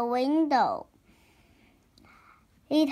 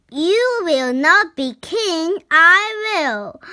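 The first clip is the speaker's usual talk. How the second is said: loud, raised-pitch defiance; shouted challenge; 6 semitones higher, 6 dB louder than usual. A narrator's reading. Harry challenging Locket over who will be king, shouted. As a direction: call it out forcefully at a rival.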